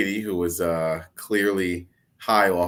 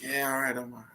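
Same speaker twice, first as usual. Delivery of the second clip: cowered reply; 5 semitones higher, 8 dB quieter than usual. Retold or imitated. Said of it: "she cowered down. She's like".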